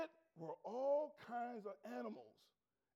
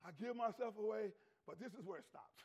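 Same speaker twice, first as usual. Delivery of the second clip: tender refusal; 4 semitones lower than usual. Acted. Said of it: "And Peter said".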